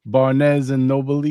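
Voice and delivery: drawn-out meme imitation of Barnes and Noble. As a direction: drag out Barnes and Noble like the video. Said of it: "when the guys are outside and they're going".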